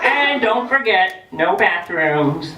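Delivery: slow, drawn-out teasing punchline; slow mock-grave finish with a laugh. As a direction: hold back the big reveal.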